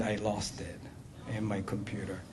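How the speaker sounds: ordinary talk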